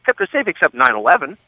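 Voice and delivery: lightly mimicked blunt candidate, pitched high; Trump. Candidate answering a rival's boast about his brother, lightly imitated. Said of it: "And Trump, again, whose designated job".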